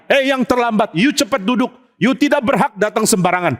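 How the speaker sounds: mock scolding. Preacher scolds latecomers from the pulpit, mock scolding. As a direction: scold latecomers, lightly acted.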